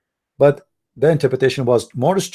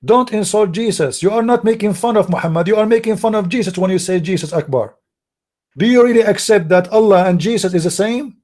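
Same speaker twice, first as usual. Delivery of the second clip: raised pitch, insistent rebuke; indignant scolding; 6 semitones higher than usual. Real, not acted. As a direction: warn them off the insult, pitched high. Scolding people for insulting Jesus.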